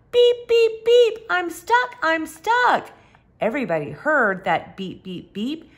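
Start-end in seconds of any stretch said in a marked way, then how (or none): 0.1-2.9 urgent beeping. Acted. Stuck truck calling for help.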